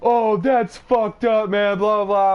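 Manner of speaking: high, loud, slow mock voice; imitating Justin. Justin complains to him, high and loud. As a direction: whine it up high like the friend. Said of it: "Justin's reply, same voice".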